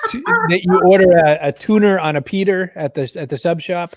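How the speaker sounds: "tuna" and "pita" said as "tuner" and "Peter"; New England added R in "tuner on a Peter"; intrusive R. Shown as a demonstration. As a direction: put an R on the end of "tuner" and "Peter". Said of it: "they put R's where no R's should be".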